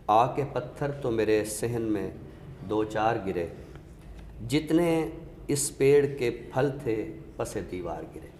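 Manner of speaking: measured ghazal recital, a touch of weight. Acted. Recites Shakeeb Jalali couplet.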